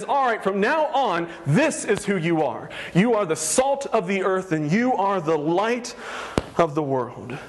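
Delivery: sincere, weighty pronouncement; mean every word, bestow it; earnest declaration. Shown as a demonstration. Pastor voices Jesus giving believers identity, sincere. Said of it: "he is giving you your identity".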